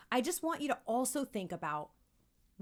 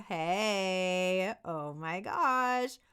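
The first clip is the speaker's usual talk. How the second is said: slower, lower-pitched; lower range; 3 semitones lower, 3 dB louder, much slower than usual. Shown as a demonstration. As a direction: drop into your lower range. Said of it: "two totally different vibes".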